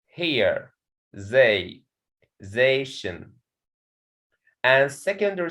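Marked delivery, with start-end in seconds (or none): 1.1-3.3 "they" and "zation" said apart as pieces of organization, "they" sounding like "zay"; "zay... ZAY-tion", syllables picked out for a class; stressed syllable isolated. Shown as a demonstration. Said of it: "there is a primary stress on the fourth syllable".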